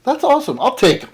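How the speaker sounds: high, eager cool; mock excited acceptance; retold delight. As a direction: jump at the deal. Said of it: "I go".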